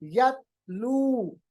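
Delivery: यतलू drawn out, ta stopped short; Arabic letter ta stopped in यतलू; slow demo of यतलू. Shown as a demonstration. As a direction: say यतलू with the ta held and not released. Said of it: "ता को आप focus कीजिएगा".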